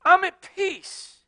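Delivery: slow, high "I'm at peace", falling; calm and at peace. Real, not acted. Pastor answering his critics, slow and calm. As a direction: settle into it. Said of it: "slow calm assertion".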